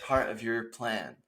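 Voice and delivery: hushed, earnest-sounding comic supplication; desperate prayer. Acted. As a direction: plead softly with God, mock-solemn. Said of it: "I'm on my knees".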